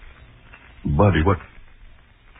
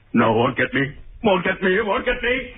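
higher and higher, panicked; rising panic; 13 semitones higher than usual. Acted. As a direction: repeat it as panic climbs. Spider pursuing her.

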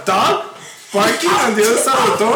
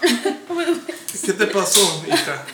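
imitating mom; 2 semitones lower, 5 dB quieter, much slower than usual. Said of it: "that's what my mom said".

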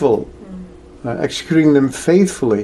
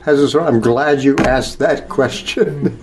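bursts in eagerly on yeah, then settles; an eager teacher glad of the question; emphatic eager yes. Retold or imitated. Krishna gladly answering Arjuna, emphatic yes. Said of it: "you know, it's like kind of".

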